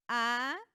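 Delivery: ACREEDOR as a, cre, e, dor, loud spaced beats; separate syllables. Shown as a demonstration. Teacher repeats the hiatus example, acreedor in spaced syllables. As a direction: split the two e's of "acreedor" into their own syllables. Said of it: "en una sílaba diferente".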